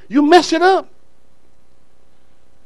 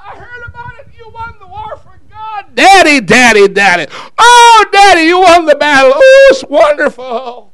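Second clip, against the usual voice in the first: put-on very high squealing child's voice; hammed-up, high-pitched girlish delight; excited little girl; 12 semitones higher, 6 dB louder than usual. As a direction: shriek with joy as Daddy's little girl. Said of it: "his little girl came".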